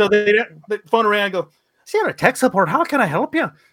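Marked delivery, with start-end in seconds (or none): 1.8-3.5 put-on stage Irish accent. Retelling how he answered tech support calls, in a put-on Irish accent. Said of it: "I decided to answer my calls with an Irish accent".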